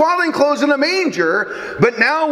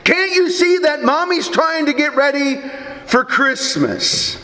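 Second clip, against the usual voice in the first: higher-pitched, mildly exasperated retold scolding; mock snapping; 3 semitones higher than usual. Preacher voicing a frantic mother to her little son, mildly snappish. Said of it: "and snapped at him".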